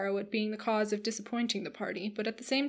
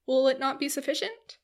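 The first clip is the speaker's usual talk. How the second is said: higher, louder eager question; hopeful rising appeal; 5 semitones higher, 5 dB louder than usual. A narrator's reading. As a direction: plead eagerly for a yes. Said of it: "said Marianne eagerly".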